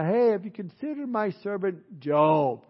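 proud God showing off his servant; mildly bragging. Acted. God pointing out Job to Satan, mildly bragging. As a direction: brag lightly on a favorite servant. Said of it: "Kind of bragging on him a little bit".

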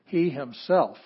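he punched loud; stress on he. Shown as a demonstration. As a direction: hit he hard. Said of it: "So this is a case".

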